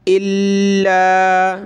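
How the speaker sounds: इल्ला with a held, doubled ल, slowly; doubled lam. Shown as a demonstration. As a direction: linger on the ल in इल्ला. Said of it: "लाम अलिफ ज़बर ला". (इल्ला में लाम पर शद्दा)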